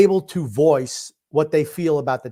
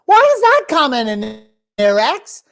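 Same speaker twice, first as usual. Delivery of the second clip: louder, higher annoyed demand; exasperated outburst; 13 semitones higher, 8 dB louder than usual. Real, not acted. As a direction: call him out, fed up. Annoyed at a chat comment.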